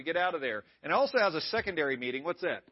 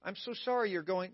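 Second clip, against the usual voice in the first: mock sympathy; 6 dB quieter than usual. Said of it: "Jesus didn't validate the man's hurt feelings".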